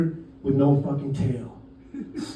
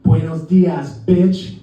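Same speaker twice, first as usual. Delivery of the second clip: louder, punched-out mock threat; pissed off; 5 dB louder, much slower than usual. Fed-up tourist turns on street dog, pissed off. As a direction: throw it at the dog defiantly. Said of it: "I'm pissed off".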